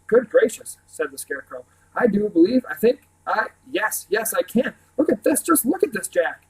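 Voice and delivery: high, excited wonder; delighted. A narrator's reading. Scarecrow marveling at his new umbrella arm, high and thrilled.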